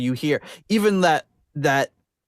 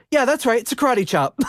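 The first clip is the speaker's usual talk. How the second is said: Jack Black impression; 9 semitones higher than usual. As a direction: play it smug and high. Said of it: "Jack Black goes".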